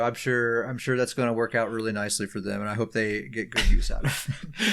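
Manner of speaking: fast, sugary fake goodwill; passive aggressive. Real, not acted. Player shrugging off the lost Hakkaijos, passive aggressive. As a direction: wish them well through your teeth. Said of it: "being passive aggressive".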